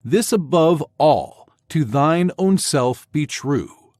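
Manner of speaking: slow "This above all, to thine own self be true" with every second syllable stressed; stressed iambic reading. Shown as a demonstration. Teacher reading Hamlet to the class so stresses can be heard, slow and measured. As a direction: read the Hamlet line slowly, beat by beat. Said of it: "Listen for the natural stressed syllables".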